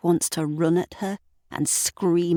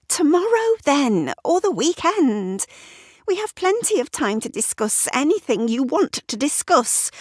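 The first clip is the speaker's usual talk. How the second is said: higher, impatient Sarah voice; Sarah voiced higher, irritated; irritated wife; 9 semitones higher than usual. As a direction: snap questions at him, rushed.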